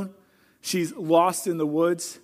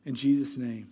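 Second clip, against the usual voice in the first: hushed, earnest prayer that fades to a near-whisper at the end; closing prayer. Acted. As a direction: speak to God humbly, letting each petition settle. Pastor leads closing prayer.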